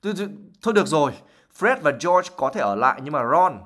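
an angry mother grudgingly giving in; flustered anger. Acted. Fast flustered anger. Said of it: "Rất là tức giận rồi".

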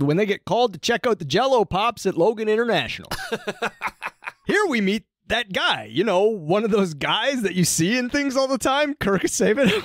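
punchy mock-dramatic episode summary; comic recap narration. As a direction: read the recap with showy, stretched emphasis.

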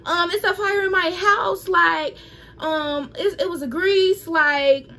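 panicked on the phone. Retold or imitated. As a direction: replay the panicked call to the emergency line, voice climbing and close to tears. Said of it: "I know I was freaking out".

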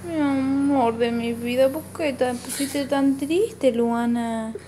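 gently drawing out each word; tender. Real, not acted. Mother soothing daughter.

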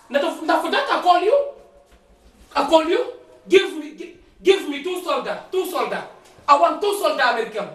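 halting broken English on the phone; man calling for help in broken English. Acted. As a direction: plead down the phone in shaky English.

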